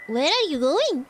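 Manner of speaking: lightly put-on Irish accent, pitch swinging up and down; mock Irish lilt on a question; imitation Irish accent. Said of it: "people who speak with an Irish accent".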